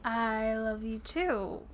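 "I love you too" drawn out slowly, as an unsure question. Acted. Answering partner who sounded weird, slow questioning "I love you too". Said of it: "I did say it like a question".

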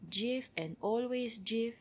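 slow Tagalog-accented delivery; unhurried, mild Tagalog accent. Shown as a demonstration. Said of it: "Tagalog accent that I can muster".

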